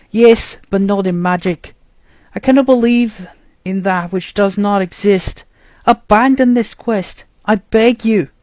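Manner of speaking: high, loud plea with a lump in the throat; choked pleading. A narrator's reading. Arthur begs his brother to abandon the quest, choked up. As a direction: beg him to stay, close to tears. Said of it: "I pleaded with a lump in my throat".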